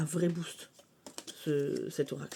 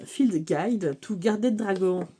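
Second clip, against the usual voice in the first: slow, louder French-accented English; English title in a French accent; 2 semitones higher, 5 dB louder, slower than usual. Shown as a demonstration. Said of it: "Ça, c'est en français".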